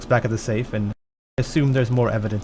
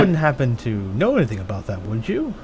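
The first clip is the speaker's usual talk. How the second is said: cat and mouse probing. Acted. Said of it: "batting at the mouse".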